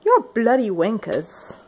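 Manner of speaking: slow mock British insult; half-hearted British impression; attempted British accent. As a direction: drawl the insult in a put-on English accent. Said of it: "that's the best I can do".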